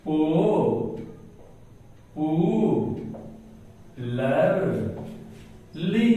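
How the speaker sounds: "पो-, पू-, लर-, ली" as four isolated syllables; long gap after each of "पो-", "पू-", "लर-", "ली". Shown as a demonstration. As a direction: dictate "पो-, पू-, लर-, ली" piece by piece. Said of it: "उसी तरह से मैं लिखता हूं".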